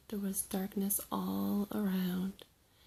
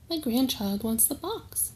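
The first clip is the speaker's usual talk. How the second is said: trickster tale voices; 3 semitones higher, 6 dB louder than usual. Acted. Sky Chief speaks to elders.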